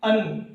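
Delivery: "अन" ending on a sounded n; audible noon ending. Shown as a demonstration. Teacher showing how two zabar sounds, "अन" with an audible noon. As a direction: make the noon heard at the close of "अन". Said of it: "आवाज़ में नून की आवाज़ होनी चाहिए".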